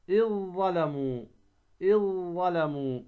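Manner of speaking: "إذ ظلموا" as iZ-Zalamu, heavy held Z; dhal merged into za. Shown as a demonstration. Teacher showing the rule, إذ ظلموا merged on heavy ظ. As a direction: drop the ذ of إذ into a doubled ظ. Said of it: "تدغم الذال".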